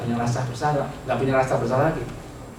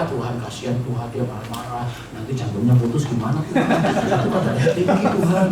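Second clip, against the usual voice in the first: pitying prayer; 4 semitones lower than usual. Retold or imitated. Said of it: "Jadi kita berdoa".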